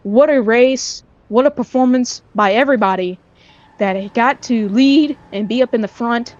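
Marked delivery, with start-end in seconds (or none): 3.8-6.3 voice crack. Real, not acted. Commentator praising everybody that got to lead, voice cracking. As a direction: voice cracking mid-sentence. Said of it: "Sorry for the voice crack there".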